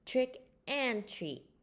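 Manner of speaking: slow, high call. Acted. Friends at Bear's doorstep, slow high call. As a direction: call it out to the house. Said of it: "they called".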